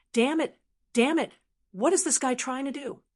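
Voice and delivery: high, outraged yell; frantic shouting. Acted. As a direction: lose his composure, cursing. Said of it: "shouted crazily".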